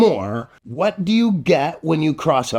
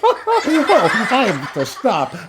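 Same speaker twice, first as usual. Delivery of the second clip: high giggle; goofy host laugh; 10 semitones higher, slower than usual. Acted. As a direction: crack up at the joke. Laughing at pun.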